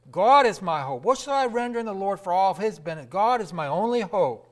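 loud, ringing psalm proclamation; fervent pulpit cry; preaching at full force. Acted. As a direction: proclaim it to the back pew.

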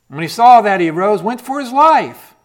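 loud, rising preacher's cry; preaching. Acted. Preacher driving home Elijah's flight, loud. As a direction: preach it out to the congregation.

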